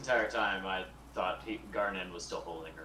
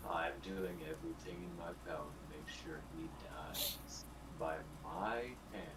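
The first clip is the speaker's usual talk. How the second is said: quiet vow; 5 semitones lower, 9 dB quieter than usual. Acted. Vowing revenge on his brother.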